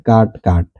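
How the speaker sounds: কাট said with an open a vowel, like kaat; correct pronunciation. Shown as a demonstration. Teacher models the right vowel in কাট, open a sound. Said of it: "এটা কি কাট".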